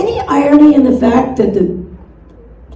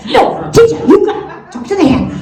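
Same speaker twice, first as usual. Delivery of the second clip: put-on protesting child; 5 semitones higher than usual.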